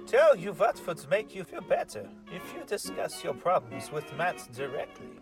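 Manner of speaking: usual speaking voice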